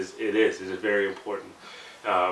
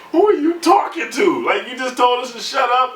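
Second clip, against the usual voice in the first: louder, higher laughing question; higher, louder laughing challenge; laughing disbelief; 13 semitones higher, 6 dB louder than usual. Real, not acted.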